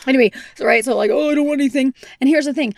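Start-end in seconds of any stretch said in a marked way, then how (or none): 1.1-1.9 lightly mocked husband voice, higher; a hint of the grumbling husband; Mark impression. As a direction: briefly imitate a reluctant husband. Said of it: "Why is that my voice?".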